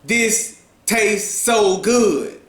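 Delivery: slow, lifted declaration; mild public profession. Shown as a demonstration. Diner professes before the entire restaurant, mildly declaratory. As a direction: profess it slowly, as if to a whole room. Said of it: "professed before the entire restaurant".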